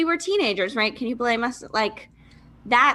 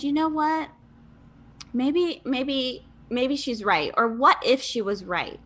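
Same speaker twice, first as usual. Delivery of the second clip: hopeful inner voice; 3 semitones higher than usual. Retold or imitated. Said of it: "something in me that said".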